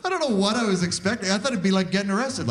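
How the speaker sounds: ordinary delivery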